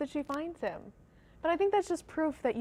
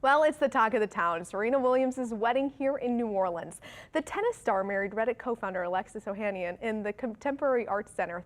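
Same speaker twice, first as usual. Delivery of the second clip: upbeat local news read; 3 semitones lower than usual. Acted. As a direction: announce a festive community event to viewers. Reads a light news story.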